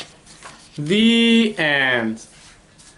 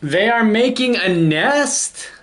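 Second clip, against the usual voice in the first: startled elephant; 6 semitones higher than usual. Acted. Elephant hears of nest building.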